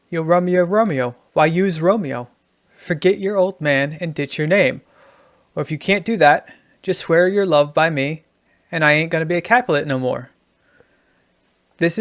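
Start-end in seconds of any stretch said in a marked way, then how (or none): 0.1-10.3 lightly put-on New York voice; New York accent. Shown as a demonstration. Writing teacher reading Juliet rewritten for New York, light New York accent. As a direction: recite it with a hint of New York. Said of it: "compared to the New York".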